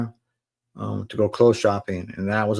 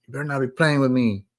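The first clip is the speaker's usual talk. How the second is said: mildly tearful warning, pitched higher; higher voice, a touch of tears; retold crying mother; 4 semitones higher, faster than usual. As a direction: imitate a mom crying in disbelief. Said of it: "she's crying".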